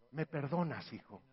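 mucho más bajo y suave; súplica suave. Acted. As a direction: pide perdón casi en voz baja. Pide perdón muy suave. (madre a su hijo, casi en susurro)

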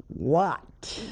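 breathy whispered "What?"; gently. Retold or imitated. Nun answering the interruption, gentle whisper. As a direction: murmur it gently, holding patience. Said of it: "I very gently said".

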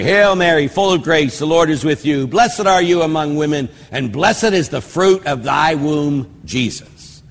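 a measured, reverent recitation; prayer recitation. Shown as a demonstration. Priest reciting the Hail Mary for listeners, reverent. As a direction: recite it as you would in church.

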